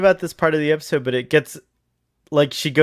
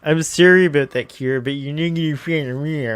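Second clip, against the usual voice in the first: mock Canadian accent. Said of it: "She's definitely Canadian".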